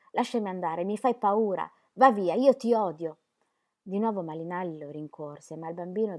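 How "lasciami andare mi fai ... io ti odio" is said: building from a call to a loud, high yell; a scared child screaming while running; frightened child's shout. Acted. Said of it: "ricominciò a correre gridando". (grido di bambino spaventato)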